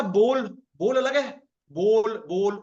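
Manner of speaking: बोल with lips rounded into a round o; rounded bol. Shown as a demonstration. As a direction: say बोल, lips pushed into a tight circle. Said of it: "होठ अलग तरीके से उठ रहे हैं".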